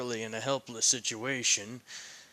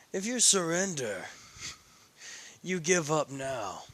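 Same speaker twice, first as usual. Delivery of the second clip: a lightly raised, smug villain voice; arrogant villain voice; 3 semitones higher than usual. Acted. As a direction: gloat over her like a smug aristocrat. Riser gloats over Rias.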